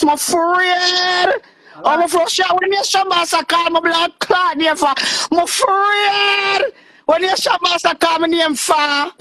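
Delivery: high, fearful crying plea; scared and tearful; afraid. Real, not acted. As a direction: voice breaks high with fear.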